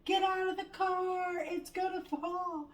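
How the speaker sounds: shouting a warning from a car window; yelling out the window. Retold or imitated. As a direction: call out in alarm, stretched. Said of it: "I'm yelling out the window".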